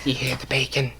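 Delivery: hushed, low, playful whisper; creepy mock whisper. Prankster whispering through a mail flap at night, creepy whisper. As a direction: whisper it softly like a lurking prankster. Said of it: "whispering the thing".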